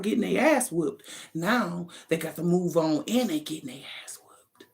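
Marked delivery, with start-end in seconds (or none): 1.3-4.7 whispered gloating aside; gleeful whisper. Real, not acted. Reader whispering gleefully about karma hitting them. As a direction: hush it like delicious gossip.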